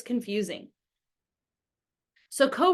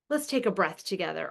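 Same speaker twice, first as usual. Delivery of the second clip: softer after a big sigh; calming down; 3 semitones lower, 5 dB quieter than usual. Acted. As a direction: breathe out, then settle gently.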